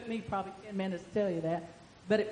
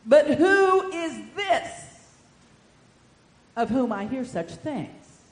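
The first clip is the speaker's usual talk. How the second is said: slow, loud, drawn-out royal voice; King Herod; 8 dB louder, much slower than usual. Acted. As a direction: ponder it like a troubled king. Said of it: "King Herod said".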